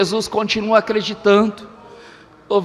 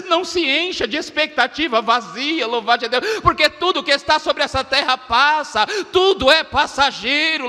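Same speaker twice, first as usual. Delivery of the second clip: urgent pulpit exhortation, rising; fervent preaching; 7 semitones higher than usual. Real, not acted. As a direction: exhort the church, pitch climbing as you go. Preaches to the church.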